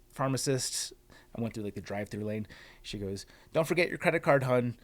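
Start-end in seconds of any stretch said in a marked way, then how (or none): 3.5-4.8 sugary higher, louder hun; sweet condescending cashier voice; mock condescending. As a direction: imitate the pharmacist talking down. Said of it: "felt very condescending to me".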